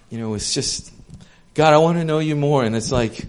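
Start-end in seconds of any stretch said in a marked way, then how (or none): 1.5-2.6 louder, higher, insistent demand; demanding prayer. Shown as a demonstration. Preacher mocks a demanding prayer with insistent urgency. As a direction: pray like you're placing an order.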